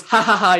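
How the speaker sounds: a lightly acted spooky laugh from the ghost; ha ha ha as the ghost vanishing; playful ghostly chuckle; mock ghost laugh. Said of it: "he laughs and he disappears".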